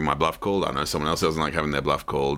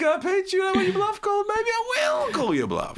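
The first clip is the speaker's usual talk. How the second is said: mock tough guy. Imitating the aggressive stranger.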